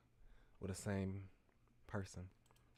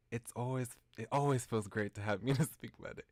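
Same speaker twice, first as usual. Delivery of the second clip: laughing mid-line; 4 dB louder than usual. Acted.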